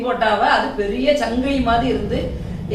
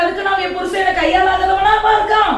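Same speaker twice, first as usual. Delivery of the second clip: angry shout; 6 semitones higher than usual. Acted. Wife shouting down her mother-in-law, angry.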